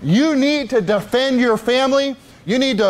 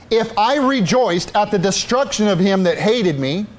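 slow, measured Bible reading; slow solemn reading of scripture; slower than usual. Acted. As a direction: read the verse slowly and deliberately. Reads scripture slowly.

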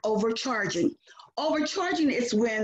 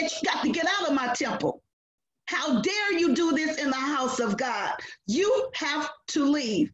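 angry order; 2 semitones higher than usual. Retold or imitated. Jesus driving out the merchants.

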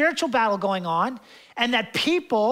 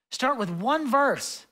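slow emphatic repeat; 2 semitones higher, much slower than usual. Shown as a demonstration. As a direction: Start with one verse said slowly, word by word. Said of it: "What I'm saying is just start with one verse".

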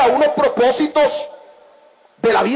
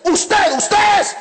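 raised-pitch, insistent finger-pointing; imitated accusation; 7 semitones higher, slower than usual. Teenager walking up the hall pointing at the speaker, imitated accusation. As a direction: act out a youth singling out the culprit.

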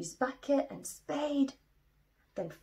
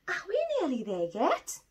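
whiny complaint; 9 semitones higher, 4 dB louder than usual. Acted. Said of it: "complained Little Bear".

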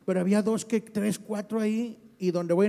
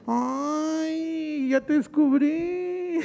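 teasing coo; 4 semitones higher, much slower than usual. Retold or imitated. Young man voiced teasing.

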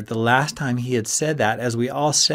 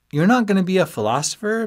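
high, louder disbelieving friend; surprised question; 10 semitones higher, 5 dB louder, faster than usual. A narrator's reading. Friend asking about giving up philosophy, high and surprised. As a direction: ask it way up high, rising. Ben asks, Ski echoes back.

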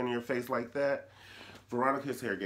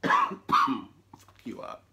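raspy, slow croaked threat; hoarse whisper; 7 dB louder, much slower than usual. Real, not acted. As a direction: croak it out through the cough. Coughing, sick and mock threat.

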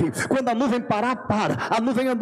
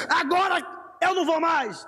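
sulky; 6 semitones higher than usual. Retold or imitated. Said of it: "fica bravo, chateado e diz".

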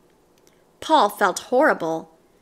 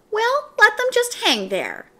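resolving thought; 10 semitones higher than usual. A narrator's reading. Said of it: "thought Paul".

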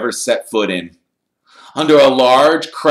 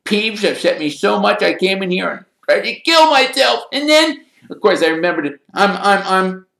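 high, melodramatic wail; dramatic; 12 semitones higher, 4 dB louder than usual. A narrator's reading. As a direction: pour out the misery theatrically. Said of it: "said Myrtle dramatically".

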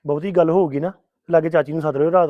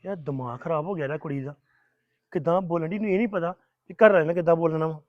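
muttered under the breath, much softer; grumbling aside; 6 dB quieter than usual. Acted. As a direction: grumble to yourself so she can't hear. Husband grumbles to himself alone.

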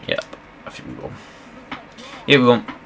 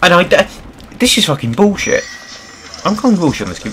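loud, high furious outburst; angry rant; 9 semitones higher, 4 dB louder than usual. Real, not acted. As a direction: rage at the game, yelling. Raging at the game.

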